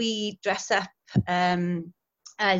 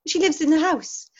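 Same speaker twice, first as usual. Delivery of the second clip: imitated child, higher; insistent kids; 8 semitones higher, 4 dB louder than usual. Schoolchildren correcting their teacher, insistent.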